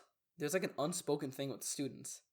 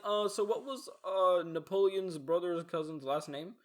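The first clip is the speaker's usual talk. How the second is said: mocking nerd; 4 semitones higher, 3 dB louder, slower than usual. Imitating obscure-question guy.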